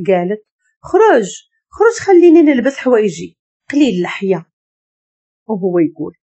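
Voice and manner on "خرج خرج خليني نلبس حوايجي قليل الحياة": get out. Acted. Woman orders Jad out while she dresses, angry. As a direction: drive him out of the room.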